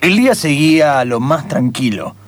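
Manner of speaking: narration building toward a reveal; radio narrator raising suspense. A narrator's reading.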